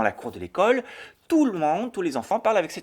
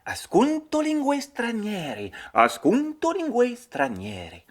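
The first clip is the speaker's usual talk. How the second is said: slow, higher Italian with a French accent; French learner repeating; 8 semitones higher, slower than usual. Shown as a demonstration. Host repeats the Italian, French-accented. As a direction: try the Italian twice like a learner. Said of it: "écouter des langues".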